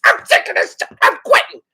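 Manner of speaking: whispered, fed up; whispered quitting. Retold or imitated. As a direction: hiss it under her breath. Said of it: "And she's".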